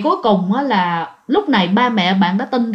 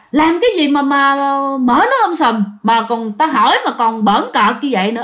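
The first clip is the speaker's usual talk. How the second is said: father mildly scolding. Retold or imitated. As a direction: scold lightly like an annoyed dad. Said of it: "Ba mới la, ba nói rằng".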